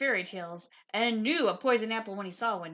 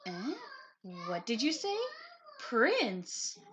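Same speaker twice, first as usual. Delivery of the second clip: croaky witch; 4 semitones higher, slower than usual. Acted. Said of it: "croaked the witch".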